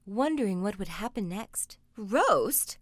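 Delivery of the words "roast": echoing ogress. Acted. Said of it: "echoed the ogre's wife".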